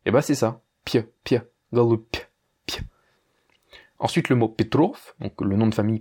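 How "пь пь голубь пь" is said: "pieux" cut to py, "galoup" ending the same; tiny glide after the p in "galoup"; soft final p. Shown as a demonstration. Teacher repeats the derived sound, soft p. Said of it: "tu enlèves le E à la fin".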